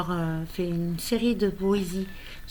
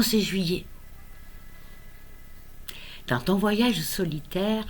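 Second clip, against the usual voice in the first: deliberate recital with pauses between lines; poem reading; 2 semitones higher than usual. Acted. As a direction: recite a poem addressed to an unborn grandchild. Lit son second poème. (lecture de poème, posée et tendre)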